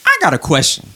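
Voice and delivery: heated, emphatic reading of the post; indignant, pointed read-aloud; emotional read. Shown as a demonstration. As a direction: read it like he's already upset, leaning on each point. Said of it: "read it in a sensitive tone".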